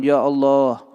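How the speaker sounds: contoh doa yang merendah, memelas; humble begging prayer. Shown as a demonstration. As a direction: minta kepada Allah seperti orang mengemis. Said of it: "Buka tangannya, ngemis sama Allah". (contoh doa memelas kepada Allah)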